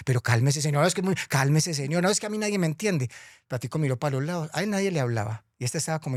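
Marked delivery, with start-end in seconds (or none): 0.1-3.1 lightly voiced Death. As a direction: complain like nobody understands you. Muerte se queja. (la muerte quejándose, un poco llorona)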